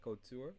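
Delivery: "Couture" modelled as "koo-TOOR", rising; French pronunciation. Shown as a demonstration. Teacher prompting a student to repeat, French pronunciation. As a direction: say "Couture" French-style, stress at the end. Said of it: "I'm telling you the French way".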